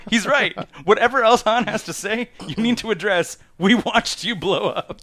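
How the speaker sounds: high, loud mock indignation; emphatic agreement. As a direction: insist on it, hammed up and amused. Teller takes up Roman's protest.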